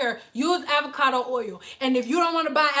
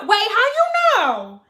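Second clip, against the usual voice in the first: higher, louder client voice; 5 semitones higher, 4 dB louder than usual. Retold or imitated. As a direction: voice the ditzy client.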